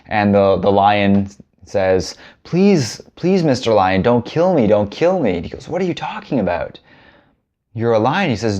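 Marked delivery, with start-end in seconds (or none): 2.4-5.3 high, mock-frightened begging, fading down; pleading for life. Lion who thinks he's a donkey begging the lion, mock-frightened. 5.7-8.3 can't believe what he hears; incredulous lion. Acted. Older lion telling the cub he is a lion, incredulous.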